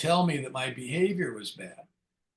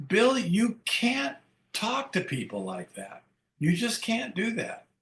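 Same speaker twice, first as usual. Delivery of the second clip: sponsor's voice, imitated; 5 semitones higher than usual. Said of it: "He says".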